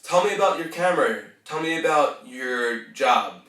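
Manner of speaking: confident request ending on a falling tune; positive, assuming yes. Shown as a demonstration. Coach showing how to ask someone about themselves, assured. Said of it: "You want to always be in the positive".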